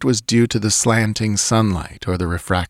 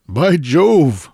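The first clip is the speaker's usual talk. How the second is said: high, louder exclamation; calling out; 8 semitones higher, 5 dB louder than usual. A narrator's reading. Swede to companion from along the bank, calling out. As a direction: call it out in sudden surprise. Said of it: "I heard him call a moment later".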